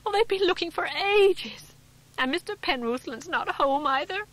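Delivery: high, loud, crying out between sobs; a frantic wife weeping with relief; tearful and distraught. A narrator's reading. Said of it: "tears pouring down her face".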